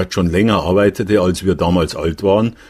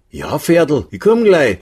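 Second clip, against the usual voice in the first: high, singing answer to a favourite regular; sweet reply; 9 semitones higher than usual. A narrator's reading. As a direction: call back fondly, voice pitched up. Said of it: "den Pferdl dabei ganz lieb angeschaut". (lieb und hoch zurückrufen)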